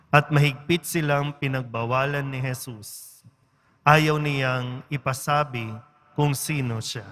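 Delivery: measured liturgical reading, phrase by phrase; Gospel reading. A narrator's reading. Priest reading the Gospel to the congregation, formal and measured. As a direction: read scripture aloud formally, pausing between phrases.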